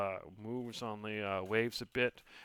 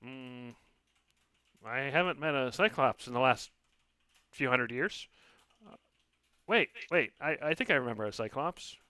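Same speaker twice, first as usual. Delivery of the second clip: tiny musing voice; 3 semitones higher, 4 dB louder than usual. Acted. Lily spirit voice, musing.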